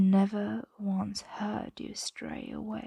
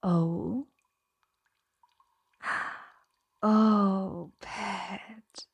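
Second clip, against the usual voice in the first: surprised; 6 dB louder, much slower than usual. Acted. Dragon notices sleeper's admission.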